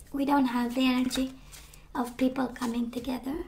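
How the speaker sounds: hoarse, fading to a whisper; losing voice. Real, not acted. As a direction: voice giving out, barely there. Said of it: "I'm losing my voice".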